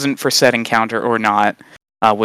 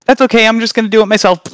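fake patience; 9 semitones higher, 4 dB louder, faster than usual. Mock patient self, retold.

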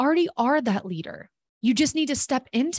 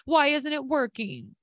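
whiny; 3 semitones higher than usual. Retold or imitated. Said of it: "if they sounded like that".

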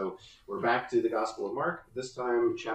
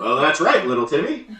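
folksy grown-up; 6 semitones higher, 11 dB louder than usual. Retold or imitated. Answering the kid as a grown-up.

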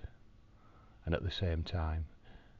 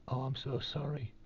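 higher, light imitation of a sorry nurse; playing the embarrassed nurse, pitched up; the nurse who spilled it, gushing a pitched-up sorry; flustered apologetic nurse; 9 semitones higher than usual.

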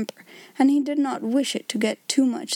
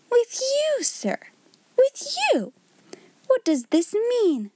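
much higher, shocked and outraged; amazed indignation; 12 semitones higher, slower than usual. A narrator's reading. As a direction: gasp it in disbelief, pitch leaping up. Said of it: "fell back in amazed indignation".

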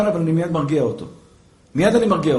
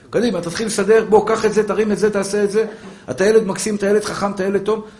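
a soft, lightly smiling praise; gentle encouragement; 4 dB quieter than usual. Shown as a demonstration. Mother softly praising her son while he tidies. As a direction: coax the child kindly.

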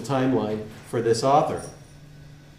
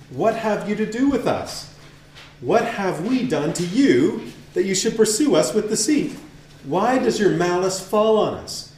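Eve crying out; 5 semitones higher than usual. Acted. Eve cries out at devil.

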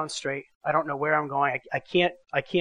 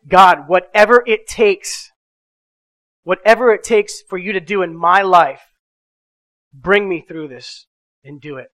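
earnest prayer; 4 dB louder than usual. Retold or imitated. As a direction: give it all up, earnestly. One of the scariest prayers.

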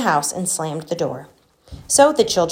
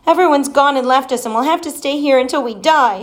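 put-on bawling child; 7 semitones higher than usual. A narrator's reading. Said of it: "she bawled".

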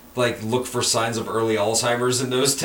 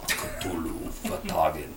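slow, low, quiet robotic intoning; robotic Speak and Spell; 7 semitones lower, 9 dB quieter, slower than usual. Pretend. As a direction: drone it like a toy speech box. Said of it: "is that a Lovecraft speak and spell?".

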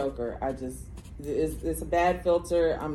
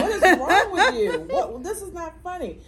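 imitating shocked daughter; 11 semitones higher, 6 dB louder than usual.

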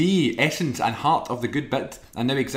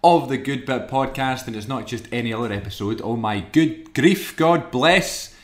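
higher, louder showman announcement; announcer intro; 4 semitones higher, 5 dB louder, slower than usual. Acted. Host opening the hundredth episode for listeners, grand announcer. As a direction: hype up the big episode like a compère.

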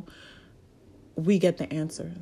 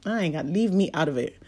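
fast, dismissive devil brushing off blame; sassy devil; faster than usual. Retold or imitated. Devil quickly refuses blame for your roadblocks, sassy and brisk. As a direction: rattle it off like a devil shrugging off blame. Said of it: "the devil's looking at me like".

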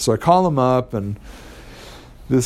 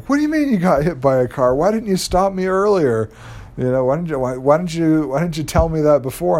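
imitating a shocked friend, higher and quick; mock alarm, pitched up; 6 semitones higher than usual. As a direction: retell her startled, high-pitched protest. Friend reacts to the accident news.

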